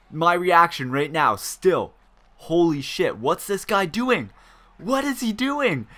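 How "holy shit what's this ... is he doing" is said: mock disbelief. Friends' disbelief acted out.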